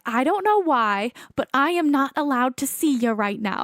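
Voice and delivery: imitating a Long Island medium, accent barely there; half-successful Long Island accent; attempted Long Island accent. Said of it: "I can't do a Long Island accent".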